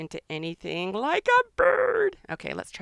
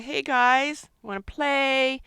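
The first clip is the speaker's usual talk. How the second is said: voicing Lemon Bird; 6 semitones higher, 5 dB louder, slower than usual. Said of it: "And saying".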